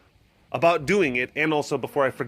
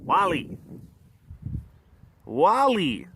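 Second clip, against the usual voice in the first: calling out; 6 semitones higher, slower than usual. Real, not acted. Calling out to the lion.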